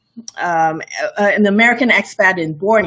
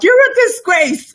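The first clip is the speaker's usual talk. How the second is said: mock hateful commenter; 14 semitones higher, 4 dB louder than usual. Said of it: "they're like".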